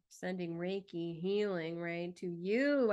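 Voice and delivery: slowed, gentle offering of healing; slow soothing send-off. Real, not acted. Astrologer sending healing to a struggling viewer, slow and gentle. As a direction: ease it out slowly, like sending comfort.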